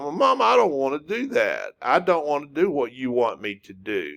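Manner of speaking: put-on mildly bratty child protesting to mom; sing-song childish complaint; whining child's tone. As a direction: lightly imitate a kid talking back, pitch swooping. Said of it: "when you were a child".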